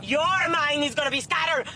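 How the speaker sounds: heated threat; angry retort. Acted. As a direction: throw his words back at him. Threatening reply in argument.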